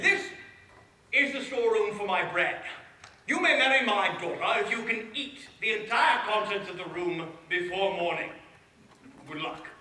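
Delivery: a horrified king stalling for time; king's voice. Acted. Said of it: "he said".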